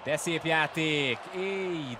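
excited goal call; loud, slow, thrilled call; excited hungarian sports commentary. Real, not acted. Live goal chance call.

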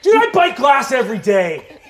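emphatic shout. Acted. Emphatic in-character.

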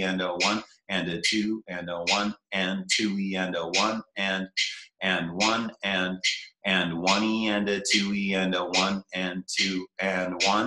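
steady counted beats with the metronome; counting the rhythm aloud. Shown as a demonstration. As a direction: count it out evenly, like a drum teacher. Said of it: "So here's the counting".

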